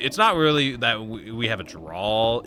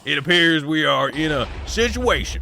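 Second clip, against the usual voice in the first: laughing; 7 semitones higher, 7 dB louder than usual. Real, not acted. Laughing while still in character.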